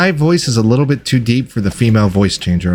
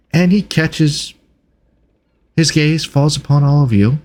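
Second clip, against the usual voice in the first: ordinary talk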